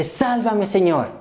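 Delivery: high-pitched plea, falling away; a lightly acted cry for rescue. Preacher replays Peter turning to Christ, crying out. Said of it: "Clama a Dios".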